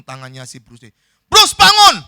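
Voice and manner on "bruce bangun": high, full-force wake-up yell; shouting. Acted. Friend pulling Bruce Lee by the hand, shouting. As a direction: yell right at the sleeper.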